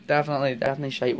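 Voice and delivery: quick, slipping into a Scottish accent; accidental Scottish accent. Real, not acted. Agreeing with a viewer, a quick slip into Scottish accent. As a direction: let a tinge of Scottish creep in, rattled off. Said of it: "where'd the Scottish accent come from".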